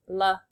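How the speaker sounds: "Likes" stretched out with a long I; sounding out. Shown as a demonstration. Teacher shows the silent E's effect, sounded-out word. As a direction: break "Likes" into L, long I, then ks. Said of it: "makes the I say its name".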